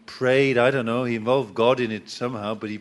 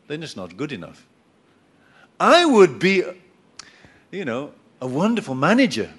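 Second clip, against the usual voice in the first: lightly voiced whiny excuse-maker; self-pitying complainer; 3 dB louder than usual. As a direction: blame everyone else, self-righteous. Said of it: "somebody who talks like this".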